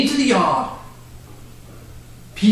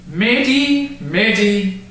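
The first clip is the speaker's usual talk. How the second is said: slow and gentle; 2 semitones higher, slower than usual. Acted. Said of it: "he slowly said".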